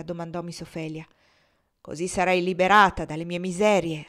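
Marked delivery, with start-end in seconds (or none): 1.8-4.0 sadly. Acted. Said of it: "rispose tristemente".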